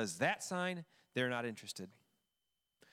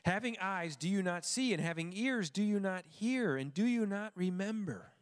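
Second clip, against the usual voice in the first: mild frustration; 4 semitones higher than usual. Acted. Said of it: "sense some frustration here on the part of the teacher".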